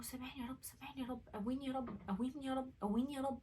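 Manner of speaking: very soft at first, gradually firmer; pleading prayer. Retold or imitated. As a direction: repeat the plea, building from hush toward normal volume. Retold prayer for forgiveness and strength.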